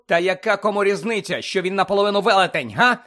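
high, loud, heated challenge; angry shout. A narrator's reading. Harry defends Hagrid to the reporter, shouting. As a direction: shout it as an indignant question. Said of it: "закричав Гаррі".

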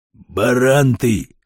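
drawn-out annoyed insult; angry. Acted. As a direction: scold him slowly, mildly cross. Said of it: "рассердился Батон". (сердито, врастяжку)

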